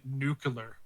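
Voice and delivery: nuclear mispronounced "nucular". Retold or imitated. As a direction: say nuclear as NEW-kyuh-ler. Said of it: "clown on Phoenix for saying".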